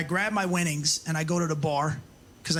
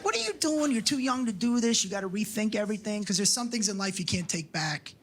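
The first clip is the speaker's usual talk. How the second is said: lecturing; 3 semitones higher than usual. Retold or imitated. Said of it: "I start lecturing her".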